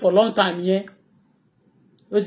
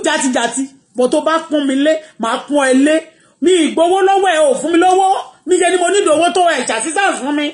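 defiant retort; 3 semitones higher than usual. Retold or imitated.

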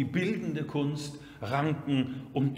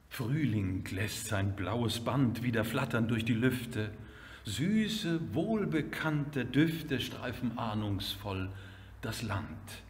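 hushed opening building to a ringing greeting; poem recitation; 5 semitones lower than usual. Acted. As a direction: recite measured lines, lifting on the discovery of spring.

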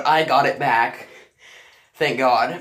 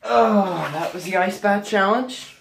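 excited; 7 semitones higher, slower than usual. Real, not acted. Excited outro.

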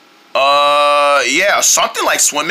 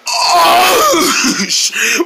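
big exaggerated groan, pitched high; ridiculous groan; 9 semitones higher than usual. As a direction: groan it out absurdly, sliding down. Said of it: "well, it sounds ridiculous".

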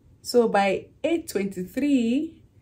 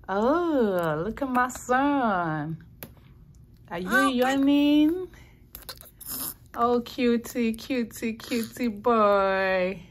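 slow, higher cooing to a newborn; 3 semitones higher, slower than usual. Real, not acted. Cooing at her yawning newborn.

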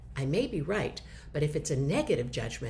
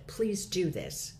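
slow instruction; much slower than usual. Shown as a demonstration. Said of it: "you said".

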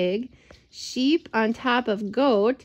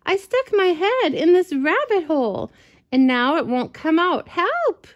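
higher pitched, pleading, ending in a high yelp; panicked cry; 6 semitones higher, 3 dB louder than usual. Acted. Dog with its head stuck, pleading high and panicked. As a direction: beg to be pulled out. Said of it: "cried Noisy".

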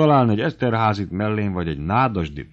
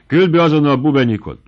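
loud, higher summons of a servant; barked order; 7 semitones higher, 7 dB louder than usual. Acted. The baron orders his hussar to fetch Bubenyik, shouting. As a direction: call the servant in at once, sharp and loud.

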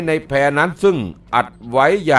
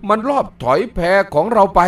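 shouting while running; 5 semitones higher than usual. Acted. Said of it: "ก๊วยเจ๋งวิ่งพลางตะโกนตอบว่า".

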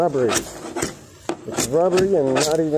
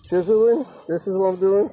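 much higher, louder outraged question; can't believe he has to chisel; real exasperated outcry; indignant disbelief; 8 semitones higher, 4 dB louder than usual. Real, not acted. Complaining about having to chisel.

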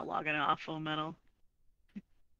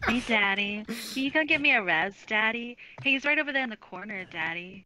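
flirty teasing. Pretend. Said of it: "It sounds way different when she says it".

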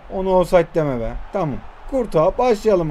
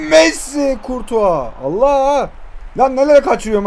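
sudden high shout of the name; excited shout; 4 semitones higher than usual. Real, not acted. Gamer yelling at his striker, excited shout. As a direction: yell it as the player breaks through. Chance on goal.

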